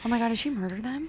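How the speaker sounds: fast, hushed whisper; whispered shock at the murder. Real, not acted. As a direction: breathe it out in horror. Shocked gasp at story.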